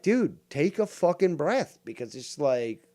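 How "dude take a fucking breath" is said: louder, higher, drawn-out exasperation; exasperated. Acted. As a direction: plead for a breather, fed up and loud. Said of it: "I'm getting exasperated".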